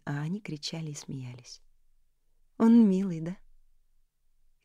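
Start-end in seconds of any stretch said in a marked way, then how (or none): 2.6-3.3 лениво. A narrator's reading. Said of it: "лениво заметила Элис".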